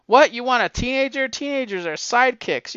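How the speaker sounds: high-pitched mock disbelief; incredulous objection. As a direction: scoff at the idea as an acted quote. Acting out publisher rejecting Spider-Man pitch.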